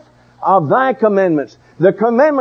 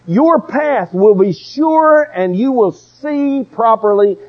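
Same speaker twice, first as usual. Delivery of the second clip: higher-pitched, insistent sermon delivery; emphatic preaching; 4 semitones higher than usual. Real, not acted. Preacher urging people to lean toward God, emphatic preaching. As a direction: press each point home to the congregation.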